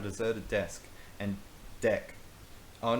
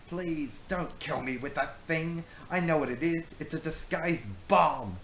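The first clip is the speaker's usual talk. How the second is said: frightened; 7 semitones higher, 4 dB louder than usual. Acted. Brownbeard terrified of the knife, high frightened pleading. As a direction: beg for your life. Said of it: "he said, frightened".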